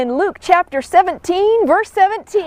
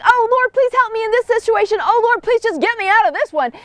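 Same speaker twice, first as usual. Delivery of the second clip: pleading prayer; 5 semitones higher than usual. Retold or imitated. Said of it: "we're constantly asking the Lord".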